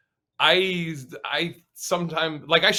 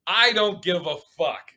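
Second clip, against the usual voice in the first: said at his usual pace, a touch defiant; defiant shrug; 4 semitones higher than usual. Retold or imitated. Telling the hostile crowd, mildly defiant. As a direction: toss it off to the hostile room. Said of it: "I literally go".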